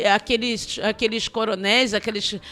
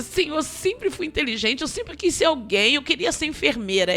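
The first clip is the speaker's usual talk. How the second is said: retold complaint to God; 4 semitones higher than usual. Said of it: "eu brigando com Deus".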